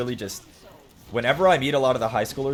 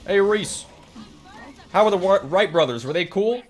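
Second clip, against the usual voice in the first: much higher and louder mock Southern accent; coworker's fake Southern voice; 10 semitones higher, 7 dB louder than usual. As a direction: ham up the coworker's teasing twang. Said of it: "He talks like this".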